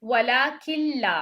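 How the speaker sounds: slow वलाकिल्ला, noon fully merged into lam; recitation without ghunna. Shown as a demonstration. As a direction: recite वलाकिल्ला with doubled ल and no nasal sound. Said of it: "इदगाम बिगैर गुन्ना".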